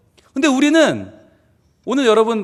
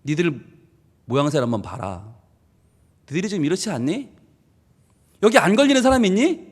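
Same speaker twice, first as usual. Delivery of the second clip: hushed rebuke; 9 semitones lower, 5 dB quieter than usual. Acted. God voiced, low and soft.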